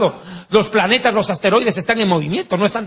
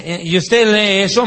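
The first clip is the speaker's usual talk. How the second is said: a hint of mocking surprise; lightly sarcastic German; gently mocking question; mild sarcasm; slower than usual. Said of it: "en un tono medio sarcástico".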